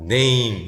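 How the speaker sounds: 'name' with a gliding 에이; letter-name A. Shown as a demonstration. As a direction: say 'name' with A as in the alphabet. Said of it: "알파벳 발음대로 가요". ('name'을 네임, 에이 소리로)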